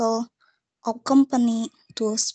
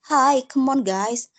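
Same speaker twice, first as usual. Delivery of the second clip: pitched-up urging to hurry; quick call to get people moving; 3 semitones higher than usual. Shown as a demonstration. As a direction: hurry them along, starting high. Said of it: "we say it quickly".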